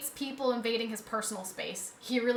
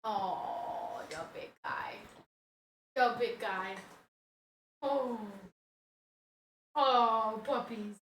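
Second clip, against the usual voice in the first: hushed, affectionate coo; tender cooing; 7 dB quieter, slower than usual. Real, not acted. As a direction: murmur fondly into the dog's fur. Cuddling the grumbling dog.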